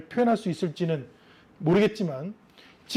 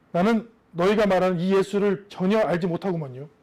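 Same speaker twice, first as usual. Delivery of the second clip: light mock country dialect, Chungcheong-style endings; 갈릴리 억양 흉내; Galilean accent. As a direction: Peter swearing denial in a hinted rural accent. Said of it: "이렇게 끝까지 그 억양으로".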